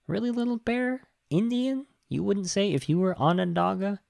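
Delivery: really, are you kidding me; high, mocking incredulity; incredulous. Real, not acted. Mock disbelief at a movie line.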